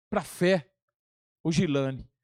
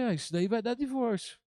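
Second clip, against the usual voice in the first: perplexidade cômica; 3 semitones higher, 3 dB quieter than usual. Retold or imitated. Reação cômica encenada ao absurdo.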